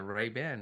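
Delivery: Ray-Ban said slowly, clear "ban", no final D; correcting pronunciation. Shown as a demonstration. Insisting on the brand's right name, correcting pronunciation. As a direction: say Ray-Ban with a full "a", ending on N. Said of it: "It's wrong. It's Ray-Ban".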